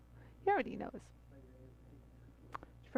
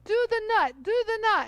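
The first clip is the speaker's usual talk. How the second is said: higher, louder eager urging; mock pushy chant, repeated; imitating Yara; 9 semitones higher, 10 dB louder than usual. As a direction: egg her on like an impatient friend. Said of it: "Yara's like".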